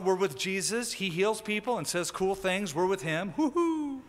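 mock crowd celebrating Jesus, ending on a woo-hoo; excited party crowd. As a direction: voice the giddy crowd, ending in a high whoop. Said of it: "one excited, happy, kind of a party mode".

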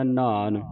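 ਨਾਨ with a weighty initial sound; heavy pronunciation. Shown as a demonstration. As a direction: say ਨਾਨ heavily, drawing out the aa. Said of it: "ਇਹਨੂੰ ਭਾਰਾ ਉਚਾਰਨ ਕਰਨਾ".

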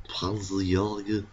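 slow, German-leaning Panzerjäger; odd German accent. Shown as a demonstration. Gamer drifting into a vague German accent. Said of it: "speaking in this accent".

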